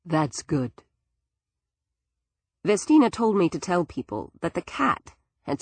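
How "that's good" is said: calm. A narrator's reading. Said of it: "voice came calmly".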